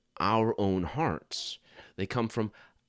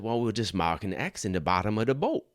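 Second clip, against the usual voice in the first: put-on light Cajun accent as Boudreaux; 3 semitones higher than usual. Boudreaux answering Thibodeau, light Cajun accent. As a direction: Boudreaux explains his plan in a hint of Cajun accent. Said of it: "the best Cajun accent I got".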